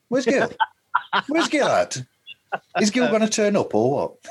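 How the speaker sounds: squeaky high impatient asking; high mock whine. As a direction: pipe it up like a whiny kid. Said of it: "lots of me and you going".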